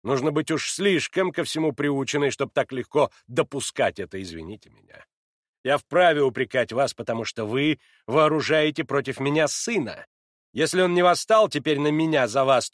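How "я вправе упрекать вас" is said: plain reading voice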